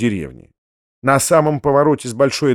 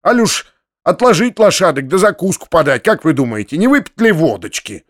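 furious sarcasm; 4 semitones higher than usual. Acted. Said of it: "с таким яростным сарказмом".

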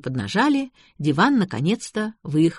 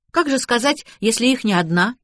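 higher, wondering question; lightly voiced baffled girl; a touch of astonishment; puzzled surprise; 6 semitones higher than usual. A narrator's reading. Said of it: "удивилась девушка".

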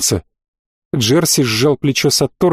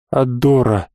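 dull, flat; 4 semitones lower, slower than usual. A narrator's reading. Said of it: "а после тускло ответил".

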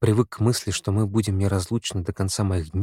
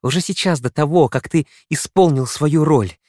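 much higher, urgent, near breaking; anguished pleading; 7 semitones higher, 3 dB louder than usual. A narrator's reading. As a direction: plead with rising pain. Her anguished pleading continues.

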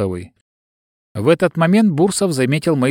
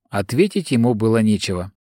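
plain reading voice

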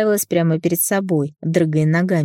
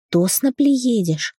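put-on little girl voice; 5 semitones higher, much slower than usual. A narrator's reading. Child asking slowly.

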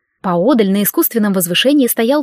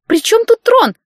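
indignant exclamation, much higher and louder; exclaiming; 14 semitones higher, 5 dB louder than usual. A narrator's reading. Client exclaims at the leprechauns about the throne, indignant. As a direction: burst out in outraged disbelief. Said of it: "воскликнула заказчица".

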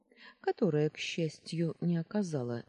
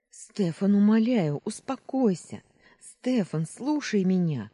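higher, loud frantic begging; desperate pleading; 6 semitones higher, 8 dB louder than usual. Acted. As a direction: beg him to calm down. Luna begs panicking Stefan.

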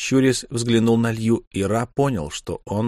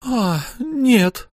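laughing; 14 semitones higher than usual. A narrator's reading. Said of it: "рассмеялась Лью".

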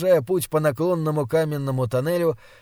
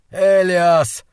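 loud, raised call of defiance; shouted; 4 semitones higher, 7 dB louder than usual. A narrator's reading. Prince cries out to the distant king, shouting. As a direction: cry the name out into the distance. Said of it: "крикнул он".

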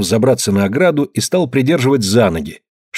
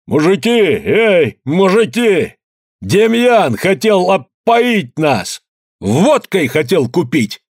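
higher, slow, straining call to the crowd; straining shout; 7 semitones higher, much slower than usual. A narrator's reading. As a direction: call out with all your strength. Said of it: "крикнул".

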